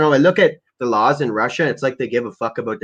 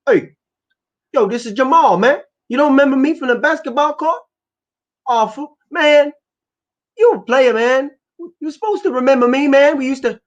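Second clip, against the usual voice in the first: high-pitched mock Black American accent; caricatured Black accent; 12 semitones higher, 4 dB louder than usual. Posing as an old basketball acquaintance on a call, mock Black accent. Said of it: "With my black accent, something like this".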